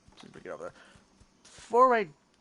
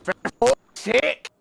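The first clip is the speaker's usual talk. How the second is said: loud drawn-out Australian curse, higher pitch; Australian accent; 8 semitones higher, 7 dB louder, much slower than usual. Real, not acted. Gamer yelling at the fleeing monster in an Australian accent. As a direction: yell it like a fed-up Aussie. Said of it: "tend to break out into this when things don't go my way".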